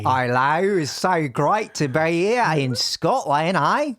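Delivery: slow, would-be Scottish but Australian; Australian accent. Pretend. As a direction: aim for Scottish, land in Australian. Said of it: "not a Scottish accent ... It's Australian".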